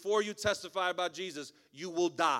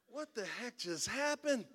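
mock astonishment; 6 semitones higher, slower than usual. Pastor's stunned reaction afterwards.

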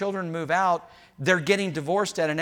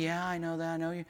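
soothing listener; 10 dB quieter, faster than usual. Acted. Acting wife listening patiently.

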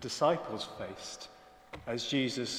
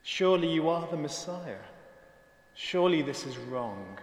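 higher, pleading mock outcry; crying out; 4 semitones higher, 3 dB louder than usual. Disciples protest to Jesus in confusion, crying out. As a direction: voice the confused protest, mildly raised. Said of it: "they're crying out".

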